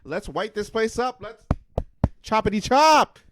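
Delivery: high, loud scheming boss voice; mock scheming executive. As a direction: play a villainous studio boss. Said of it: "did they just like".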